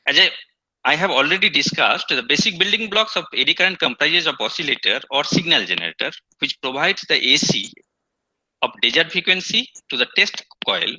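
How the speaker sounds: speaking up for a weak mic; projecting so the class hears. Real, not acted. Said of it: "You are not audible".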